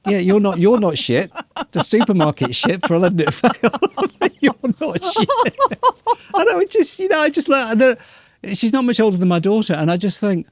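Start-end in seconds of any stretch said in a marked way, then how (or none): 0.1-7.5 worked up. Real, not acted. Heated defence of cashier.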